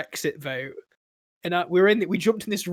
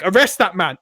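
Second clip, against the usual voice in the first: mock command; 7 dB louder than usual. Acted mayor ordering police.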